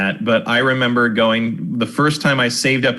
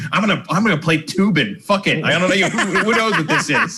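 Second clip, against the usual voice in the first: put-on giddy kid voice; 7 semitones higher than usual. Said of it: "but I was like".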